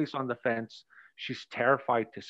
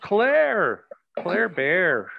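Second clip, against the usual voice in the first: high, louder, playful call of a name; 5 semitones higher, 5 dB louder, much slower than usual. Real, not acted. Teacher cheerfully calls Claire up next, high and bright. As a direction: sing out her nickname to bring her up.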